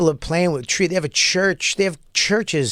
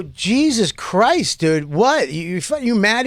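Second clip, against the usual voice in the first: retold startled reaction; 5 semitones higher, slower than usual. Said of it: "And then I go".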